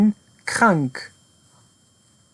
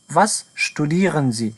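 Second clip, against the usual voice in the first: slow model question; much slower than usual. Shown as a demonstration. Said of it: "repeats the model question".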